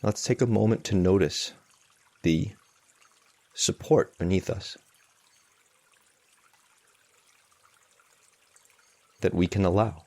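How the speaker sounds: unhurried meditation guidance with long pauses; spacious, measured mindfulness instruction; guided meditation. Real, not acted. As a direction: guide them gently, leaving long silences between phrases.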